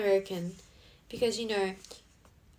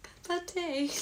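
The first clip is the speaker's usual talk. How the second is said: high, playful put-on British-style accent; mock a British-style accent, pitched high; bad accent; 8 semitones higher, much slower than usual. Teasing viewers with a high, badly faked accent. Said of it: "I'm really bad with accents".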